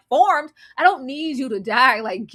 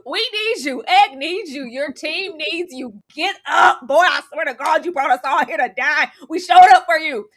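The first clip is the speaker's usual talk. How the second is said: raised, exasperated pleading; rally him like an upset fan; worked-up scolding plea; retold yelling; 3 semitones higher, 4 dB louder than usual. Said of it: "I was yelling".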